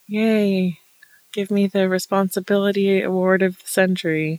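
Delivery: dry mock cheer; sarcastic. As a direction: sell the fake celebration. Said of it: "I'm like".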